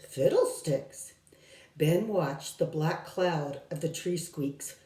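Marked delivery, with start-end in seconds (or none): 0.1-1.1 grumbling. Acted.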